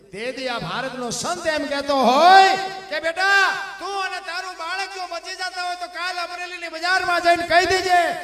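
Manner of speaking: loud, high impassioned preaching; preaching at full force. Acted. Preacher voicing the saint's bold command, loud. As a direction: thunder the saint's words to the crowd.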